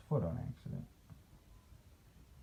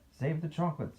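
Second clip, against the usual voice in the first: narrated yell; 6 semitones higher than usual. A narrator's reading. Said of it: "yelled the man with the tall white hat".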